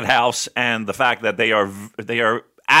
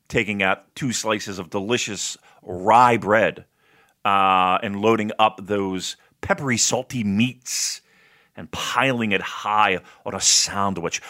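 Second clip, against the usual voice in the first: slow, savoring food description; describing voice; 3 semitones lower, slower than usual. Pretend. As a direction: linger over every tasty word. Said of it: "My describing voice".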